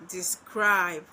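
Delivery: light "de", loud stressed "scribe" in "describe"; stress on second syllable. Shown as a demonstration. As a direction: hit the "scribe" in "describe" hard. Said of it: "Unstressed syllable followed by a stressed syllable".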